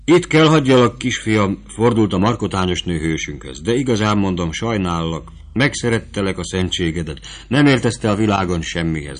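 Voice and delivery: put-on motherly soldier woman talking down to a boy; lightly voiced camp woman; vivandière's voice. The vivandière speaks to Fabrizio.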